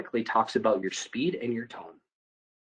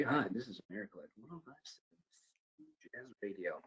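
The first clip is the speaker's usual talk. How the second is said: calming a caller like a jazz radio host; late night jazz DJ; 16 dB quieter than usual. Shown as a demonstration. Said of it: "late night jazz D J".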